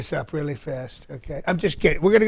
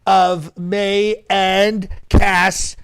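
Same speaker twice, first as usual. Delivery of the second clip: big, much higher, louder welcome; excited Trump greeting; 3 semitones higher, 7 dB louder, slower than usual. Acted. Trump impersonator greeting a fan on stream, loud and much higher. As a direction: greet the fan like a rally star.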